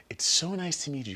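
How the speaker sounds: fake-sweet high greeting, lightly voiced; mock Michelle Obama. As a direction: pretend polite Michelle greeting. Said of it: "have her pretend like".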